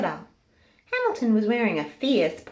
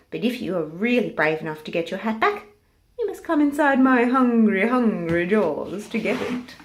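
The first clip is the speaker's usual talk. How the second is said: louder sly crocodile dare, stretched hungry; crocodile taunting; 5 dB louder than usual. Acted. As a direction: tempt him into your jaws.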